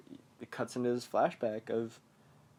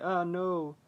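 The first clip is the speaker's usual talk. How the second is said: higher, lightly acted alarm; mock freak-out; 6 semitones higher than usual. Boy seeing a werewolf in the cellar, mock alarm. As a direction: play at freaking out, pitched up. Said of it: "He's freaking out".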